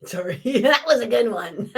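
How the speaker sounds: laughing through the words; can't hold back a laugh at the joke; high airy laughter after an apology. Real, not acted.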